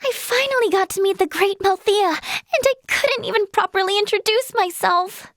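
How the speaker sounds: high, dismayed self-reproach; embarrassed lament. Acted. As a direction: wail mildly over your own blunder. Lamenting a botched introduction.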